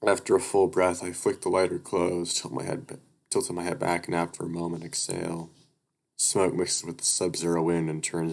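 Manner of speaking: steady read-aloud narrator voice; even storytelling read; story narration. A narrator's reading.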